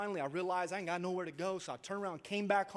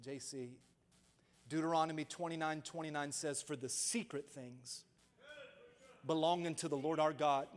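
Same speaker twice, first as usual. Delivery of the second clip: tearful mother. Retold or imitated. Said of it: "what she said with tears".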